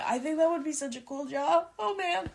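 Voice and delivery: fighting back real tears; getting choked up, voice high and thin. Real, not acted. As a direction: voice rising high and going soft on the edge of tears. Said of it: "I'm gonna cry".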